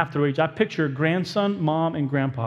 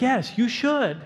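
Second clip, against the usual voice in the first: inner debate, higher and faster back and forth; mock inner argument, pitched higher; arguing with himself; 6 semitones higher, slower than usual. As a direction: voice both sides of the inner argument. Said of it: "And you're like".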